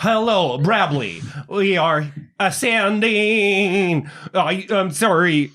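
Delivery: a broken voice pattern struggling to get words out; breaking-up voice. Acted. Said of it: "You're breaking up".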